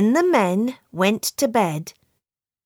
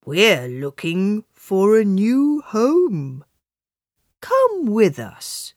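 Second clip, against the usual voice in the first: kindly. Acted. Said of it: "said the donkey and the cat kindly".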